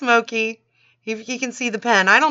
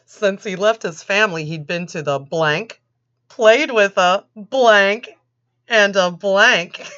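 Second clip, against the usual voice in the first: quiz reading; 3 dB louder than usual. Shown as a demonstration. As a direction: pause on each blank like a quiz. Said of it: "'cause we're gonna have a quiz".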